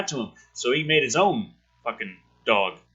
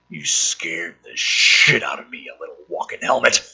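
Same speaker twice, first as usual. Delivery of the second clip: startled guard; 8 semitones lower than usual. Acted. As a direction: gasp it out at the armadillo.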